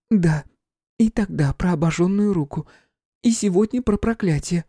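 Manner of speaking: high feminine voice; Flora, nervous medium. A narrator's reading. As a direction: confirm it anxiously. Flora confirming prophecies.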